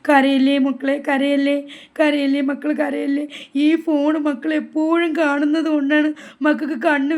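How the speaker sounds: loud at first, then easing, repeated soothing; urgent consoling. Acted. Grandmother telling the child not to cry, urgent consoling. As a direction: hush a crying child with insistent comfort.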